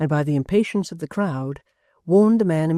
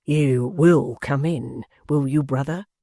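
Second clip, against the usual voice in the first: slow grim warning; slower than usual. Acted. Hangman's last warning.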